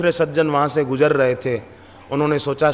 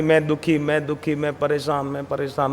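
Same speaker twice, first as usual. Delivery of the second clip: mock self-pity; 4 dB quieter than usual. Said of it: "नहीं".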